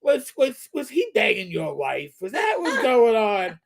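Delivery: lightly voiced detective interrogating; mild Columbo, probing suspect; Columbo impression. Detective grilling the neighbor about Toby, light Columbo voice. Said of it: "after my Columbo impression".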